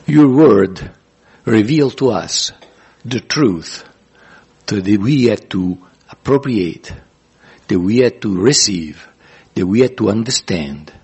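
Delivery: measured prayer in short, paused phrases; deliberate congregational prayer; leading prayer. Real, not acted. Leads closing prayer.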